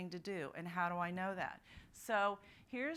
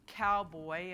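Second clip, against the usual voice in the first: cowboy said loud and slow for class; teacher's clear model word; 6 dB louder than usual. Shown as a demonstration. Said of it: "and I say cowboy".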